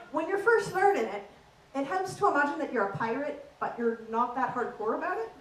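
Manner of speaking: lilting Irish accent demonstration. Shown as a demonstration. Comic teaching an audience the Irish accent, in Irish accent. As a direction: talk like an Irish speaker. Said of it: "that's Irish for you".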